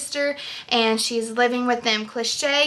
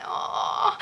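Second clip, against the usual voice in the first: sympathetic aww; 4 dB quieter than usual. Retold or imitated. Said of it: "it has me going".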